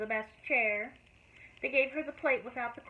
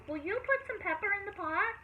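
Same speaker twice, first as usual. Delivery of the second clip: calling out; 9 semitones higher than usual. A narrator's reading. Calling to Sam.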